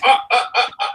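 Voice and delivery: high astonished ah ah ah; mock the boss struck speechless; stunned stammer. Owner stunned by the actor's bold pitch, high stammering. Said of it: "and Mark just".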